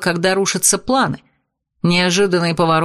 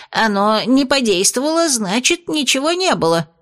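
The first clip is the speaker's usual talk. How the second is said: испуганное оправдание; 5 semitones higher than usual. Acted. Бес в панике оправдывается.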